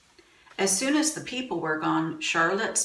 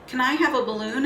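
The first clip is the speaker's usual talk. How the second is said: put-on higher, pleading child's question; eager child asking; 6 semitones higher, 4 dB louder, faster than usual. A narrator's reading. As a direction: beg lightly for a treat. Child begging for treats.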